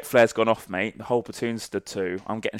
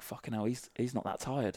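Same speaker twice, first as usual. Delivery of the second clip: a soft muttered aside, much softer; muttered envy; 2 semitones higher, 10 dB quieter than usual. Retold or imitated. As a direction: grumble it quietly to yourself. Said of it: "looking around like".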